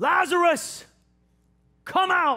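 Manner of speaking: fierce, very high, loud cry. Retelling a scripture scene, voicing the call to come out, loud calling out. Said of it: "This loud".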